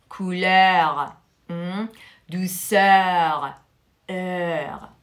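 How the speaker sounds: usual speaking voice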